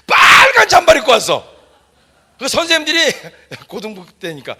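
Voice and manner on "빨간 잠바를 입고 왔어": high, loud burst of delight; thrilled reveal of the red jacket; excited exclaim. Real, not acted. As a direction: announce it like a happy surprise.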